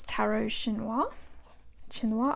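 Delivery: lightly put-on French pronunciation; a touch of pretentious French; pretend French accent. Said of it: "I'm pretending I'm French with that".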